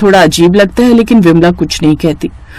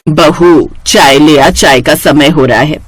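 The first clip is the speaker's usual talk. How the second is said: a hint of a lower, older mother-in-law voice; slightly lower, calling for tea like an old mother-in-law; lightly voiced mother-in-law; 4 semitones lower, slower than usual. Mother-in-law asking daughter-in-law for tea, lightly voiced lower.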